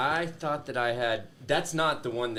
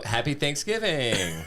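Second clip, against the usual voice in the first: put-on Valley girl voice. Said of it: "Why'd you just start speaking like a Valley girl?".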